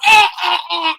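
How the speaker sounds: high, loud "eh, eh, eh"; sharp repeated noise cutting off the wrongdoer; buzzer-like refusal noise. Shown as a demonstration. Mimes her reaction to being wronged.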